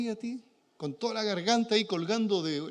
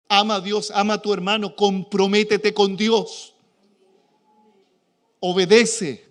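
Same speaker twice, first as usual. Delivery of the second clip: pastoral exhortation; 7 dB louder than usual. Retold or imitated. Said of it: "procuraré decir a los cabritos".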